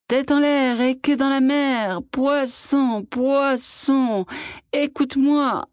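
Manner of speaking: put-on high, husky old man's call; old hoarse voice. A narrator's reading. Old fisherman calling the fish at dawn, hoarse voice. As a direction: rasp the chant out with a cold in the throat. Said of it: "de sa vieille voix grippée".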